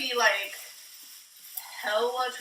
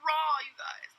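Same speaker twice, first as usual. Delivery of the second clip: fast, high start, mock vlogger line; mock vlogger catchphrase; 5 semitones higher than usual. Mocking her own vlog catchphrase, lightly hammed. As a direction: rattle off the cliche, then swear. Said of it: "cut in herself saying it".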